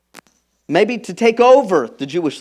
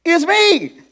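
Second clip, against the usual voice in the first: reassuring Jesus; 6 semitones higher, 4 dB louder, faster than usual. Retold or imitated. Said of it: "Jesus just said".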